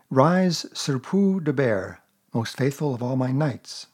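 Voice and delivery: put-on slow, grand little-boy ceremony; mock-solemn knighting. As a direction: dub the bear with playful pomp. Boy knights Pooh with stick.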